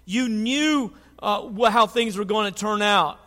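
loud, hurt accusation, slowed on the opening words; retold yelling. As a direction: relive shouting at God over old wounds. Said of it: "I started yelling at him".

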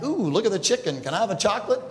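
put-on scattered, childlike darting attention; distracted chatter. Preacher mimics a distracted mind, scattered and childlike. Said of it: "Attention deficit disorder".

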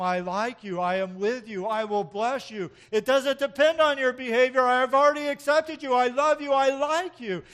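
loud and high, rising; building to a loud, high declaration; loud warm proclamation. Acted. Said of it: "God says to him".

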